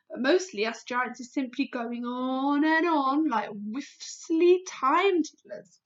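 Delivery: loud giant voice, firm; a big giant setting her straight; BFG, friendly giant. Acted. BFG voice in story.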